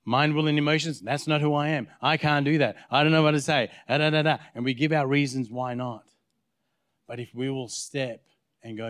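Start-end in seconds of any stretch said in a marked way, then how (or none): 0.1-4.4 mock protest, running on insistently; making excuses. Mind and emotions answering God back, making excuses. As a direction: reel off excuses, lightly acted.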